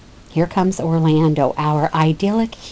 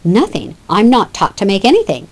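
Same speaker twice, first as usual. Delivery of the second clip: dry, mildly mocking reply; a light hint of sarcasm toward the older brother; sarcastic. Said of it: "in a very sarcastic manner".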